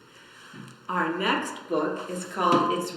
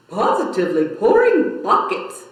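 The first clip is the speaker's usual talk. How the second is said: moaning; 5 dB louder than usual. Acted. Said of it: "moaned another".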